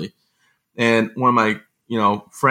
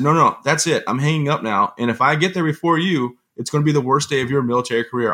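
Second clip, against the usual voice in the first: retold stern warning; 4 semitones higher than usual. Retold angry phone showdown.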